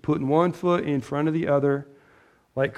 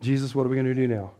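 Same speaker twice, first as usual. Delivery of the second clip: mock panic; 4 semitones lower than usual. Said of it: "God isn't thrown back like".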